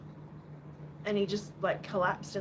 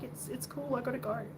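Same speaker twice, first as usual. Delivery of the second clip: soft, slightly raised voice for the cat; gentle imagined voice; 3 semitones higher, 6 dB quieter than usual. Retold or imitated. Voicing the dying cat saying goodbye, soft and accepting. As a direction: let it go softly, accepting.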